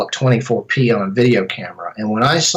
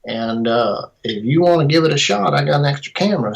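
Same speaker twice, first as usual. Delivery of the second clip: put-on Tennessee accent; 3 semitones higher than usual. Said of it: "This is my best Tennessee accent".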